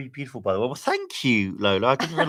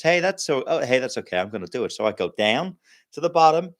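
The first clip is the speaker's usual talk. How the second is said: lightly put-on American accent for a joke. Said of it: "the American says".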